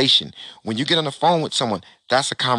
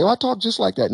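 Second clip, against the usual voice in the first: mock bragging friend; 11 semitones higher than usual. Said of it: "So if your friends say".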